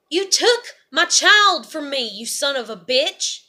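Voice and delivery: loud, raw cry of blame at her father; furious accusation. Real, not acted. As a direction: hurl it at him like an accusation. Accusing father who took child.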